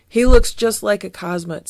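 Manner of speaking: a touch of fright, lightly acted; shaky voice. Fieldgar still eyeing Odie, slightly shaky voice. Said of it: "in a shaky voice".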